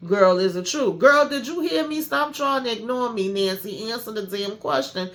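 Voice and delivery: rising, pushy mock demand; hammed-up nagging girlfriend; badgering friend. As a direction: press her harder with each question.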